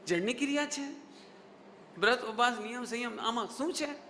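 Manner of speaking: mock disapproving questioning; scornful mimicry. Teacher mimicking those who sneer at puja and rituals, scornful. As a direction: imitate someone scornfully challenging worshippers. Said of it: "जो आप चेहरा बिगाड़ के बोलो".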